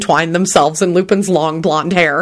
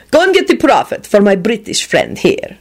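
higher, displeased order; 4 semitones higher than usual. A narrator's reading. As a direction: order a servant about with displeasure. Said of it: "he ordered one of the servants".

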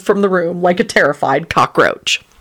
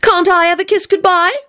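startled; 13 semitones higher than usual. A narrator's reading. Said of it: "she said in a startled voice".

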